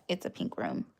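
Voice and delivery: breathy whispered aside; soft whispered pink room. Shown as a demonstration. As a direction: whisper it like a secret. Showing her room on stream.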